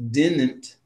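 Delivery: DIDN'T drawn out, middle d softened toward "dinn-ent"; mispronounced DIDN'T. Retold or imitated. Showing how a podcast guy says it, DIDN'T with swallowed d. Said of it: "he does not say them like that".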